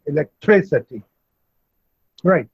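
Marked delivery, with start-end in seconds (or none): 0.1-1.0 electricity, with the weight on tri; stress on tri. Shown as a demonstration. Teacher modelling electricity for students, stress on tri. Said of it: "the stress is on three".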